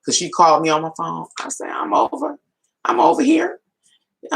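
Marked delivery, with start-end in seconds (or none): 1.7-3.6 sing-song answer. Retold or imitated. Answering the phone cheerfully.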